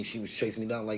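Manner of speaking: ordinary delivery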